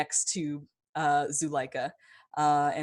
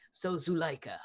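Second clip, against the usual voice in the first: whisper. Acted. NPC addressing Zuleika quietly.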